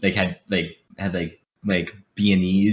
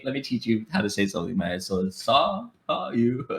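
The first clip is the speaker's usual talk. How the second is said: slow breakdown; 6 dB quieter than usual. Shown as a demonstration. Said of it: "say it really slowly and break it down".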